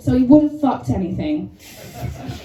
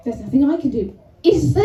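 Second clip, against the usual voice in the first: self-important; 3 dB louder than usual. Retold or imitated. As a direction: make IS THERE a cocky, loud challenge. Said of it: "But it came out like".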